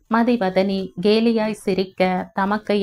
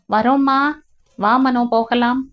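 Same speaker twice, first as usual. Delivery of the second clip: higher, louder call to someone in another room; calling back; 4 semitones higher, 4 dB louder than usual. Acted. Sister answers their mother from the other room, called out higher and louder. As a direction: shout back that you're coming.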